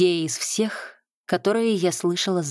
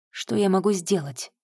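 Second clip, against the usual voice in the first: reassuring. Acted. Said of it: "в его голосе звучат успокаивающие нотки".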